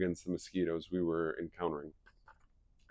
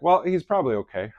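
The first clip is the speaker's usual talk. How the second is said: higher, louder wry reply; dry reassurance with an edge; wife hinting at trouble, higher wry voice; wife's voice; 8 semitones higher, 7 dB louder than usual. Retold or imitated. Wife voiced in retold call.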